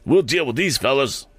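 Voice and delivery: high-pitched pressing orders; urging. A narrator's reading. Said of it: "urged Morse".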